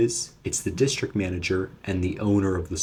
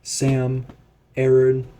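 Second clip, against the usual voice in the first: higher-pitched mock manager yelling; angry manager; 6 semitones higher, slower than usual. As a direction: imitate the boss calling them out, pitched up. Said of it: "I hear my manager going".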